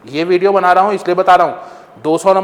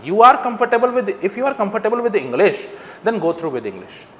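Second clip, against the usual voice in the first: slow, deliberate; 2 semitones higher, much slower than usual. Shown as a demonstration. Slowed explanation to students.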